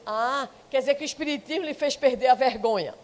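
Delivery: a touch of ironic laughter. Retold or imitated. Cousin mocking her relative's new faith, ironic laughing jab. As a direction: sneer it with a light laugh. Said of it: "com aquele jeito irônico".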